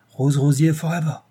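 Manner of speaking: lightly acted burst of enthusiasm; enthusiastic. A narrator's reading. Saint-Chet delighted by the news, enthusiastically. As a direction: cheer it in French-accented English. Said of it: "enthousiasmé par ces nouvelles".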